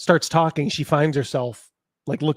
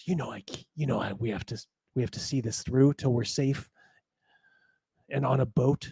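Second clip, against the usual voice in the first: petulant, sulky whisper, much quieter; 2 semitones lower, 7 dB quieter than usual. Game master voicing a companion who leans in to a player, petulant whisper. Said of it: "leans into you and whispers".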